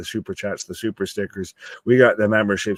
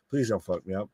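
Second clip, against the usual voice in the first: retold pleading; 3 dB louder, much faster than usual. Host paraphrases the tape's message to Pat, mock pleading. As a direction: imitate a small, hushed begging. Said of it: "So they're just pleading".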